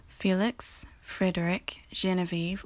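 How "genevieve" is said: Genevieve with a soft G as /ʒ/. Shown as a demonstration. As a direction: say the G in Genevieve softly. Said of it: "also with a soft G".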